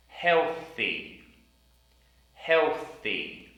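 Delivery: Healthy with blown th before the y; Healthy, th clear; careful th in healthy. Shown as a demonstration. Teacher drilling the word Healthy. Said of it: "T H sound in the middle".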